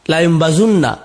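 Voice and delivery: বাজুন্না with u in the middle; third reading বাজুন্না. Shown as a demonstration. Teacher giving the third reading to students. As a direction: say বাজুন্না with a clear u. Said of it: "এর তিনটি কেরাত আছে".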